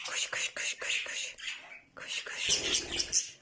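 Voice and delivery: soft whispered run run; whispered coaxing. Real, not acted. Owner coaxing the bird to run, whispered. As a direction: hush it over in a whisper.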